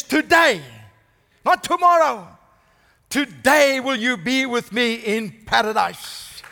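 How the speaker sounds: tender promise. Retold or imitated. Jesus promises thief paradise.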